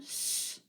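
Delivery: "s" hissed between s and sh; Yurok S. Shown as a demonstration. Teacher reminds learners what to listen for, Yurok S. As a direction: sustain "s" leaning toward sh. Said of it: "the Yurok S sound".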